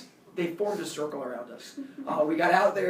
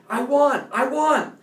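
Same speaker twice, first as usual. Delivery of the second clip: loud, high victory yell; imitated yelling; 8 semitones higher, 8 dB louder, slower than usual. Bully getting up after the fight, imitated triumphant yell. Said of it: "he keeps yelling".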